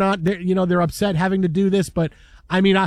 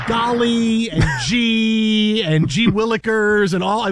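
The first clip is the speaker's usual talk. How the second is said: put-on wholesome 1950s kid; 3 dB louder, slower than usual. Shown as a demonstration. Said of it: "similar terms are".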